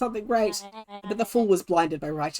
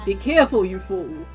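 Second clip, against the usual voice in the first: sharp warning; 3 dB louder than usual. Acted. Villain snaps at thief.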